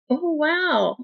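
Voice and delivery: stunned wonder after the crash; amazed child. Retold or imitated. Unhurt child in the pileup gasps in amazement, surprised.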